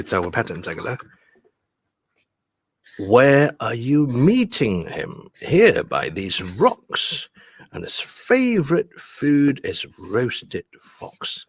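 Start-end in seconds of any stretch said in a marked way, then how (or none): 3.1-11.4 slow verse, strong beats on "meeting", "rocks", "favorite", "fox"; four-beat stress pattern. Shown as a demonstration. Teacher showing the rhythm pattern, slow heavy beats on "rocks" and "fox". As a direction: stretch each stressed word, "Where" to "fox". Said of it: "四個重音".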